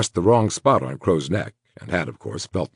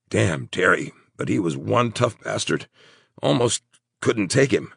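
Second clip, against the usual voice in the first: halting, somewhat raised voice; wounded Crow; 5 semitones higher than usual. Acted. Wounded man telling his friend of the fight, halting.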